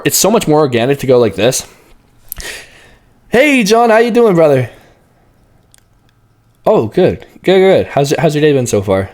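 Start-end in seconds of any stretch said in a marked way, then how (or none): 3.3-9.1 starting high. Shown as a demonstration. Coach showing how to open a sales call high. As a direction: open bright and up top. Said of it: "recommend starting high".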